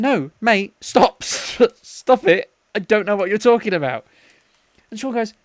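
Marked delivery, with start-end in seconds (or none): 0.0-4.1 higher-pitched, pleading objection; exasperated mock protest. Imitating friend begging his mate to stop, exasperated. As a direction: plead with him to drop it.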